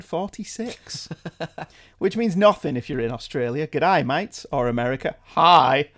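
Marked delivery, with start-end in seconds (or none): 3.7-4.4 lightly put-on Australian greeting; Australian accent. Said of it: "My, my Australian accent". 5.3-5.9 loud, bad American greeting; American accent. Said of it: "was better than my American accent".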